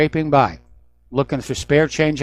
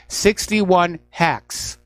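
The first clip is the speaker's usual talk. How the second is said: ordinary talk, nothing marked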